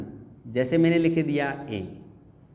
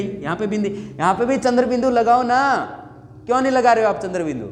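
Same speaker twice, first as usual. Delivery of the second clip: pupil complaining; 4 semitones higher than usual. Pretend. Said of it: "आप कहेंगे".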